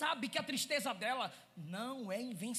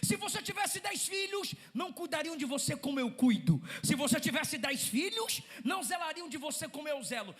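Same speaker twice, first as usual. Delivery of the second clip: higher, earnest promise; loving husband; 3 semitones higher, 6 dB louder than usual. Acted. Husband promising his wife he loves her more, earnest. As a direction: vow it with devotion. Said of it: "O que ele tá dizendo é".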